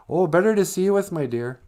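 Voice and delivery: a wolf badly pretending to be granny; wolf faking grandma. The wolf answering Red, putting on a high grandma voice.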